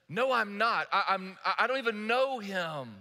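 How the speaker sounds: mildly acted, defensive protest; flustered denial. Peter to the servant girl at the fire, flustered denial. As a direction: stammer out a hasty denial.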